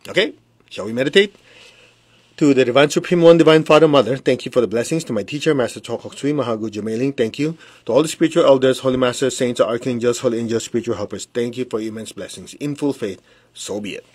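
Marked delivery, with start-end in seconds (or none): 2.4-14.0 measured, devout invocation to the masters; invocation prayer. Acted.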